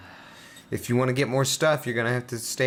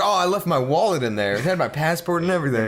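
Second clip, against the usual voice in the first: mock character whine; 6 semitones higher, 3 dB louder than usual. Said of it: "It's like".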